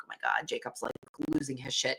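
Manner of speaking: a hushed whisper to herself; whispered aside. Retold or imitated. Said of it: "And I'm like".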